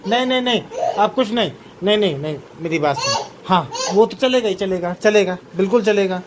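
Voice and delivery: father playfully scolding his toddlers in a high, bright voice; talking to toddlers. Real, not acted.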